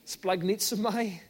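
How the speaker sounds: slow, drawn-out Glaswegian-style delivery; joking Glaswegian pronunciation of a Greek word; mock Glaswegian. Shown as a demonstration. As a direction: say it like Glaswegian slang, slowly. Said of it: "Glaswegian way of saying spaghetti bolognese".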